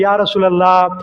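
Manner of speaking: a mock sobbing lament to his leader; Umar, weeping, pleads with the Prophet in a high anguished voice; pleading through tears. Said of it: "தேம்பி தேம்பி துடிச்சு அழுதுட்டு கேட்கிற".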